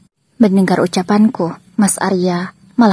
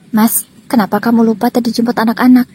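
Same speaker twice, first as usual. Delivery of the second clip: curt; 3 semitones higher than usual. Acted. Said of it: "dengan nada ketus".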